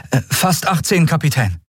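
put-on very high, eager boy's voice. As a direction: hurry to reassure her. Miko voice.

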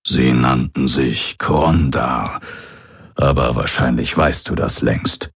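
measured start, a hint of old pirate. Old pirate names the people. (leicht angedeuteter alter Pirat, bedächtig)

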